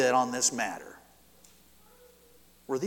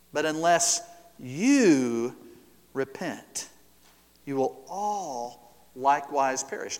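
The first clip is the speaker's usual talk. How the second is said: solemn warning; slower than usual. Acted. Solemn quote of Jesus.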